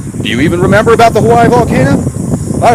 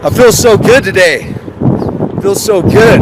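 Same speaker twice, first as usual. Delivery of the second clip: mock bliss; slower than usual. Sarcastic blissed-out praise of spraying.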